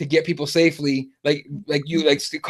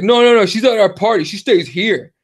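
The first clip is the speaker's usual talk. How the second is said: insistent refusal; 3 semitones higher, 4 dB louder than usual. Retold or imitated. Frat boy refuses to let her leave, mock insistence. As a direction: imitate a drunk frat boy overruling someone.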